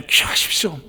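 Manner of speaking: 기억하십시오 breathed as a whisper; whispered reminder. Shown as a demonstration. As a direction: lean in and whisper it.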